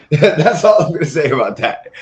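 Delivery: laughing through the line. Shown as a demonstration. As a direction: chuckle while saying it.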